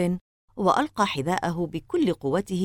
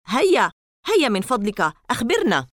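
higher, louder begging; pleading; 6 semitones higher, 5 dB louder than usual. Acted. Boy begs Larry to tell, higher pleading. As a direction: beg him to tell. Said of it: "توسلت إليه قائلًا".

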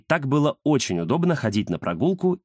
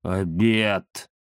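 закатив глаза; 3 semitones lower than usual. Acted. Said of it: "закатил глаза Захар".

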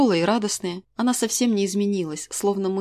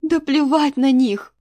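slow, louder, higher outburst; exclaimed on a breath; 7 semitones higher, 6 dB louder, slower than usual. A narrator's reading. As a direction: blurt it out, letting the breath go. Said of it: "выдохнула я". (мать выдыхает дочери, громко и медленно)

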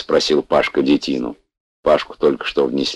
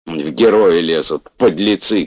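raised, indignant cry; angry shout; 3 semitones higher, 3 dB louder than usual. Acted. Fat man yells at the reckless driver, angry cry. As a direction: spit it out at the reckless hero. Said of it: "кричал толстый".

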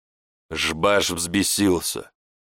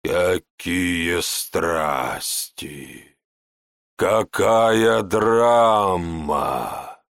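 very slow, drawling sneer; villain mocking the drama; 2 semitones lower, much slower than usual. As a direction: savour the mockery word by word.

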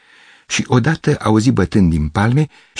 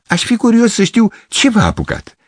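put-on a touch of a puzzled old man. Gavrilescu asking, voice shifted.

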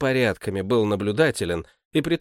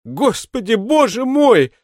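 higher, loud fervent outcry; heated; 12 semitones higher, 7 dB louder, slower than usual. A narrator's reading. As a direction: cry out to God with fervour. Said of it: "С жаром продолжал башмачник". (с жаром, громко и высоко)

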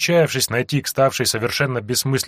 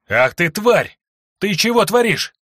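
shrieking fury, much higher and louder; furious hiss; 9 semitones higher, 4 dB louder than usual. Acted. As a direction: spit the words out like an enraged fury. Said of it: "разъярённой фурией прошипела она". (яростное шипение)

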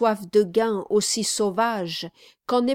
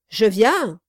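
quick reply; 7 dB louder than usual. A narrator's reading. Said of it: "dit vivement".

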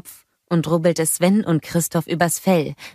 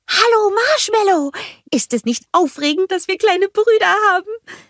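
cheery greeting; 3 dB louder than usual. A narrator's reading. Olaf greeting the snowgies, high and happy. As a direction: call out warmly to the little ones. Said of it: "rief Olaf ihm zur Begrüßung zu".

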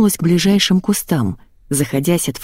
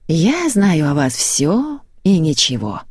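mysterious pronouncement; slower than usual. Acted. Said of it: "изрекла она, загадочно мерцая глазами".

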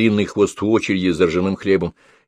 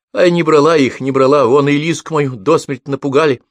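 tearful plea; 7 semitones higher, 6 dB louder than usual. A narrator's reading. Beaten woman pleads, sobbing.

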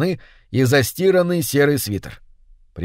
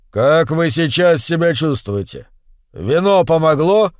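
raised voice over the roar; loud question; 2 semitones higher than usual. Acted. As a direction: call it out loudly. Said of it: "громко спросил хозяин". (громко, перекрикивая шум)

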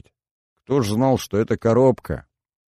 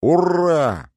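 high joyful hurrah; cheer; 9 semitones higher, 4 dB louder than usual. Acted. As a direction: cheer with raised glasses. Friends cheer the toast.

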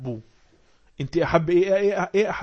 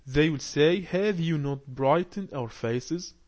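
slow, careful reading aloud to a class; slow text reading; much slower than usual. Acted. Teacher reads the lesson text aloud slowly. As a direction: read each phrase slowly for learners.

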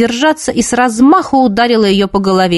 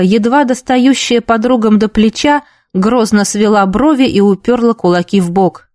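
plain reading voice

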